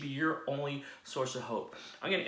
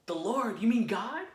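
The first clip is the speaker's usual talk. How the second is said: stunned; 9 semitones higher, 5 dB louder than usual. Acted. Jack stunned at God's voice.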